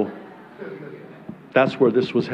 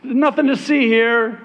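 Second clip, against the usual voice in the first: false prophets; 4 semitones higher than usual. Retold or imitated. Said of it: "when the prophets would say".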